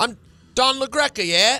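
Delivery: would-be Irish accent landing British, high, loud. Trying out an accent for the others, use an attempted Irish accent that sounds British. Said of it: "No, that's British".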